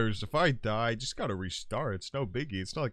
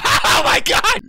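shriek; 15 dB louder, slower than usual. Real, not acted. Startled by attacking fish.

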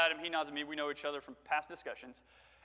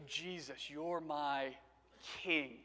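quiet reverence; 3 semitones lower, 6 dB quieter, much slower than usual. Acted. Reverent contrast to shouted versions.

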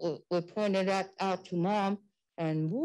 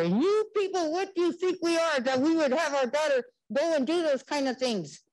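higher-pitched indignant challenge, mildly heated; retold indignant scolding; 5 semitones higher than usual. Mom confronting counselor over her daughter's class, indignant. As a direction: retell a mother laying into someone. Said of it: "Mom started on her".

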